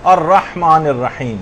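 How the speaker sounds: الرحمن الرحیم slow, the ح made clearly in the throat; careful throat ح. Shown as a demonstration. Teacher showing how to recite, careful articulation. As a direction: sound a full rah in الرحمن. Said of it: "ہا جو ہے وہ صحیح نکالنا".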